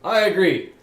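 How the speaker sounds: Wilfred's voice. Acted. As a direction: voice a hearty companion. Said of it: "To which Wilfred replies".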